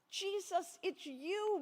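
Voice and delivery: high, joyful recognition; exclaiming. Acted. Mary recognising Jesus, high and joyful. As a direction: cry out in glad surprise. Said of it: "Mary exclaimed".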